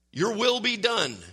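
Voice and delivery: WILL pitched high, slow line; slow, emphatic WILL, falling to done; stress on WILL. Shown as a demonstration. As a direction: lean on the word will. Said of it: "We do exactly what I just did".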